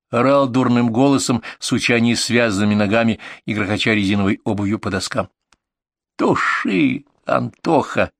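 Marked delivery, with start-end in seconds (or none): 6.2-8.1 high call on Туши, dropping on the name; desperate shout. Acted. Partner struggling with patient shouts to put out the fire. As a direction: cry out for help, desperate. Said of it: "отчаянно закричал Серёга".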